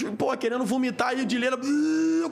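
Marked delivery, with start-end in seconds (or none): 1.6-2.3 drawn-out buzzing tic sound; higher-pitched buzzy noise; imitated tic noise. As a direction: imitate a vocal tic with a buzz. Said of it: "com o tique".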